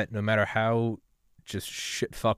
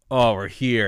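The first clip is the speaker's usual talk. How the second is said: a louder, brighter "Oh, we're here" bursting out; loud relief; 7 dB louder, slower than usual. Retold or imitated. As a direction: announce the arrival with a relieved exclamation. Relief on arriving after brutal trip.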